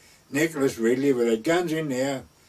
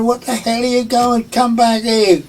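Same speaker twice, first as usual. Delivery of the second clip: higher, louder angry yell; retold yell, higher and louder; retold shout; 9 semitones higher, 8 dB louder than usual. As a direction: re-enact shouting at the owners to come back. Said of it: "I shouted".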